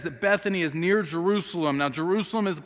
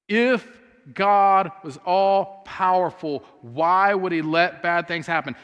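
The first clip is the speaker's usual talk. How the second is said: louder, slow, pointed question; preacher voicing the world's challenge, louder and slower; pressing challenge; 4 dB louder, slower than usual. Shown as a demonstration. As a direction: throw the hard question at the room. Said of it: "Have you ever heard that question before".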